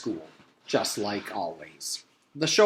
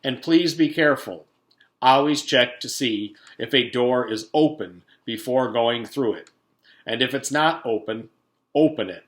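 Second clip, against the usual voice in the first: pompous principal; 7 dB louder than usual. Acted. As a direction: lecture the school over the PA. Principal advising on PA.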